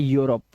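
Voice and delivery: यूरोप starting with a single "yu"; correct "yu" start. Shown as a demonstration. Teacher giving the correct reading, यूरोप with a "yu" start. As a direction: say यूरोप as "yoo-rop", no ee before it. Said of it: "इसे पढ़ना है".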